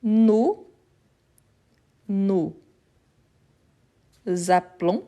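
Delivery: appelons said with a closed a-pe-lons and no open è; closed sound demo. Shown as a demonstration. Teacher contrasting closed sounds in appelons. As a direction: model appelons with a closed first syllable. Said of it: "Vous voyez que c'est les sons fermés".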